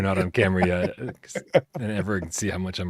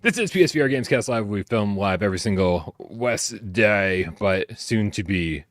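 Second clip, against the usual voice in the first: talking like a pirate. Acted. Host welcomes viewers back to the live show, sliding into pirate talk. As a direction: slip into a hint of pirate while announcing. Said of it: "Why am I talking like a pirate?".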